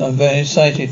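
low-pitched mock American accent; imitated American accent. Showing off impressions as a born entertainer, imitated American accent. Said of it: "Imitates American accent".

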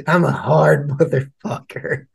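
slow mock tough-guy brag; lightly voiced swaggering badass; hammed-up slow boast. Mocking tough-guy persona.

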